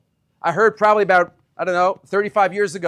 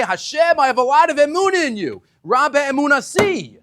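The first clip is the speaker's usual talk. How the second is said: fervent prayer; 7 semitones higher, 5 dB louder than usual. Pretend. Voicing morning prayer to God.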